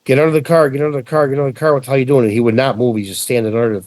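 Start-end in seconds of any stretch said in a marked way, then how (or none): 0.0-2.2 mild mock yell, raised pitch; urgently calling to his cousin, half-voiced; retold yelling. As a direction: re-enact a frantic yell without full volume. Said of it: "I'm yelling to him".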